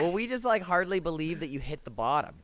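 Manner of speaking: excited laughing. Real, not acted. Laughing disbelief at friend's dive.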